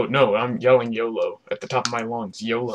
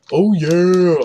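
excited shout; 7 semitones higher, 13 dB louder than usual. Real, not acted. Repeats cheer loudly.

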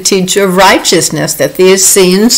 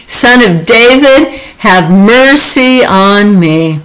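blind man crying louder; slower than usual. Acted. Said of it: "he cried out all the louder".

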